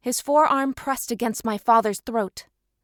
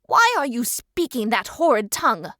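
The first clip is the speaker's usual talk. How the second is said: demanding; 4 dB louder than usual. Acted. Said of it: "Alpha Primus demanded".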